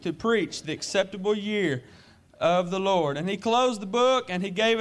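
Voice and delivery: low, measured Bible reading; scripture reading. Acted. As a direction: read the passage solemnly.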